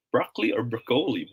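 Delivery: "broccoli" as BRAH-klee, then bruh-KOH-lee; soft open-O "broccoli", then long-O "broccoli"; two pronunciations contrasted. Shown as a demonstration. Teacher quizzes viewers, contrasting broccoli pronunciations. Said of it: "how should we pronounce this word".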